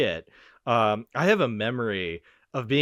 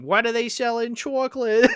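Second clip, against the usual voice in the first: much higher, louder cartoon old lady squawk; whole marching band parodying the chocolate old lady, high squawk; 11 semitones higher, 4 dB louder than usual. Hammed-up high old lady impression. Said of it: "fifty to eighty kids ... are just going".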